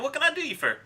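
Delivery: high Southern shopkeeper asking; now a settled Southern accent. Acted. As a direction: land the Southern accent this time. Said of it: "It just took a second to get into it".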